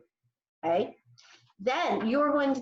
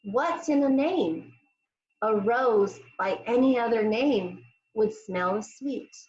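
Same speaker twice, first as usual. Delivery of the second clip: slow, measured quote; slow recitation. Shown as a demonstration. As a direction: read it slowly for the class. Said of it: "And the saying is".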